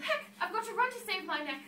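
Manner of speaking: a touch of panic; shouting. Acted. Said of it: "and she shouted".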